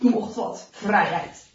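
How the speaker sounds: loud, low, gruff soldier; low-pitched scornful soldier; rough soldier. A narrator's reading. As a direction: dismiss the idea roughly. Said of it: "De ruwe soldatenstemmen klinken".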